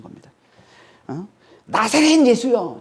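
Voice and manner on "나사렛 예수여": drawn-out cry of an acted demon; mock demon cry. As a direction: cry out slowly, imitating a tormented demon. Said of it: "귀신이 못 견디고 소리치는". (귀신이 길게 외치는 흉내)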